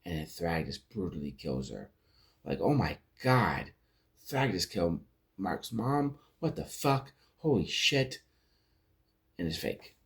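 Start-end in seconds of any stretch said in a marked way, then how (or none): 2.6-8.2 shocked reaction. Retold or imitated. Viewer reacting to Thrag killing Mark's mom, shocked disbelief. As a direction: act out gasping disbelief at the screen.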